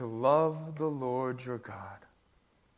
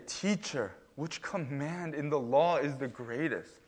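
softer, mocking question with a sneer; sarcastic; 5 dB quieter than usual. Pharisee mocking Jesus as a fake rabbi, sarcastic. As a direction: ask it as a snide jab at the teacher. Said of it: "there is some sarcasm and wit in how these Pharisees talk to Jesus".

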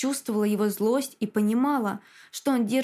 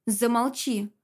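ordinary delivery

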